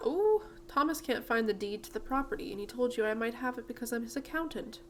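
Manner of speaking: British lady repeating a request; British accent. Acted. Miss Holdsworth hears why the visitor came, British accent. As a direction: voice her with a light British accent. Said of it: "I gave her a British accent".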